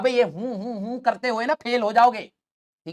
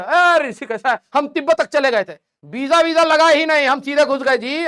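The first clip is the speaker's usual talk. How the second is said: higher, louder boastful show-off; bragging friend; 4 semitones higher, 3 dB louder than usual. Retold or imitated. Teacher acting a friend who brags about Tibet, boastful. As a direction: puff up and brag to outdo him.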